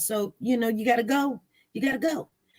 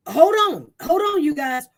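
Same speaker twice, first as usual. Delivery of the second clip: louder call to hold on; loud interruption; 3 semitones higher, 5 dB louder than usual. Real, not acted. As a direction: stop everyone, louder. Interrupting herself loudly.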